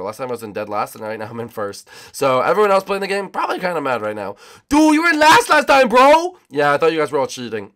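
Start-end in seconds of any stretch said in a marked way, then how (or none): 4.7-6.4 very high, loud mock complaint; outraged rival. Other player complains to the leader, hammed-up high outrage. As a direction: play an indignant losing player, shouting high.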